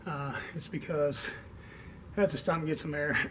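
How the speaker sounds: winded, pausing to get air; out of breath. Real, not acted. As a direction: talk between short breaths. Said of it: "I'm out of breath".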